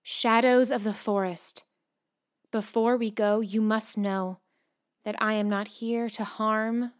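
measured, projected royal address; lightly declaimed plea to a crowd; proclaiming princess. A narrator's reading. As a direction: address the whole forest, with deliberate pauses. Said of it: "filled it with her voice".

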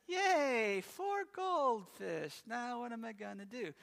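sarcastic cheer that sinks into dread; mock cheer. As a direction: drag out the fake excitement, then go flat. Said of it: "she's like".

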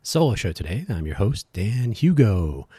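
bright announcer radio voice. Shown as a demonstration. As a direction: open like a radio host. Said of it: "Trying out my radio voice".

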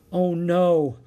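high, loud cry of dismay. A narrator's reading. Jack finding the book is not there, dismay. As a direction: exclaim as your hopes drop. Jack's heart sinks, book missing.

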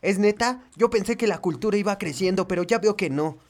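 cute anime voice; vtuber. Acted. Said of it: "¿Por qué haces voz de anime?".

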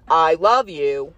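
slow, even robot-assistant voice; Siri voice. Retold or imitated. Imitating Siri answering her, slow and mechanical. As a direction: lightly mimic a phone assistant. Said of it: "That's like Siri".

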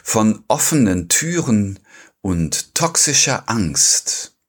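slow, measured title read; podcast intro, unhurried and deliberate; episode title announcement. Real, not acted. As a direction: announce the poets and theme in measured phrases.

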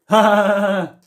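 imitated laugh. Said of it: "You get that as well".

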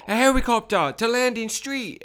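high, hammed-up fake Asian accent; clumsily imitated Asian accent; terrible Asian accent. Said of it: "really terrible Asian accent".

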